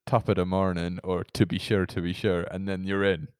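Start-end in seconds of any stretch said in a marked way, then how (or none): 0.1-1.0 lightly done Irish accent. Shown as a demonstration. Showing a co-host the usual trigger phrase, Irish accent. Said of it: "normally for the Irish accent". 1.3-2.4 low, lightly done Irish accent. Shown as a demonstration. Showing a co-host how people get in, Irish accent. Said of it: "normally for the Irish accent".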